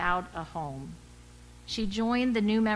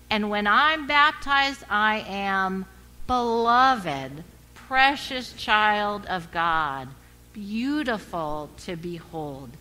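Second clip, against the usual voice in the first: Fayette's joyful cry; 3 semitones higher, 7 dB louder, slower than usual. Retold or imitated. Fayette telling the class, loud and joyful. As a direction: proclaim it like a woman sure of her worth. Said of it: "she would say".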